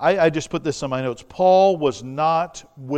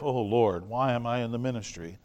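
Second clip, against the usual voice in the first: mild mock complaint; 3 semitones lower, 5 dB quieter than usual. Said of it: "Instead of".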